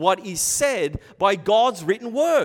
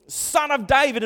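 raised, higher yell; quick acted holler; 6 semitones higher, 5 dB louder than usual. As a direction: call out like a man in a crowd. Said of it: "he's yelling out".

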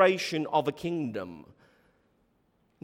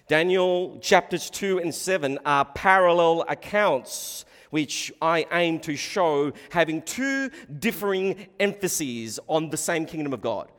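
ordinary delivery

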